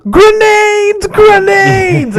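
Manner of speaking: very high, stretched mock reading voice; sounding out a word. Co-host as Justice who can't read grenades, high squeal. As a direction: squeal the word out, drawn out and proud. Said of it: "but he can't read, so he's like".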